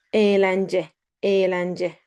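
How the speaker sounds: eğlence with the ğ silent. Shown as a demonstration. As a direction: say eğlence without pronouncing the ğ. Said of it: "we do not pronounce it".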